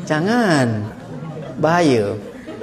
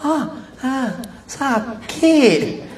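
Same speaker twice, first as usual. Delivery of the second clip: high pained cries, hammed up; mock cries of pain; 6 semitones higher, much slower than usual. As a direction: cry out as if being pulled.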